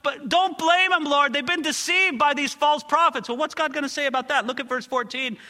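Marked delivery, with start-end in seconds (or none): 0.0-3.3 high, loud plea to the Lord for the people; pleading excuse. Acted. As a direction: argue their case with God, urgently. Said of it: "he's hoping to explain or excuse".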